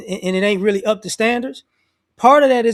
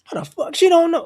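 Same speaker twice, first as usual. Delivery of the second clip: mock angry rant; 9 semitones higher than usual. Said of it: "he went off like".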